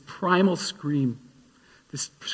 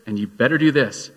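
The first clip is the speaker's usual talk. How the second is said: bossy list of orders; 3 dB louder than usual. Retold or imitated. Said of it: "He doesn't say".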